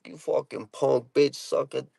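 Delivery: imitating his own Boston tirade, mildly heated; mock Boston cursing rant; heated Boston accent. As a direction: reel off Boston insults, trailing into blahs. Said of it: "if you get somebody heated".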